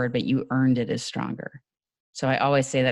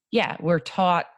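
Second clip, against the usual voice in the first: New York vowel on "taught"; New York accent; 5 semitones higher, slower than usual. Real, not acted. Speaker slips while making a point, New York accent. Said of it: "there comes my New York accent".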